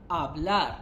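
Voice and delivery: "Hablar" with the H silent. Shown as a demonstration. Teacher showing students the verb, silent H in "Hablar". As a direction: say "Hablar" starting on the vowel, no H sound. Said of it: "where H is silent".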